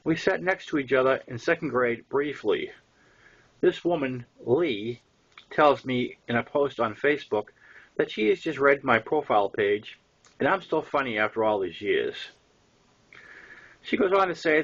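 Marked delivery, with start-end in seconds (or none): none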